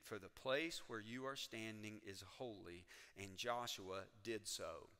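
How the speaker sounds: measured, solemn Bible reading; scripture reading. Acted. Preacher reading the Joshua passage to the congregation, solemn.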